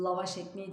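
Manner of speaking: "lavaş" with a dark l and back a; wrong thick sound. Shown as a demonstration. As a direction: make the first syllable of "lavaş" thick. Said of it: "o da kalın olmaması gerek".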